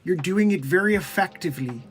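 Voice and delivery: measured earnest professor voice; lightly voiced earnest professor; Jordan Peterson impression. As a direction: speak carefully like a lecturer. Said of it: "Hi, it's Jordan Peterson".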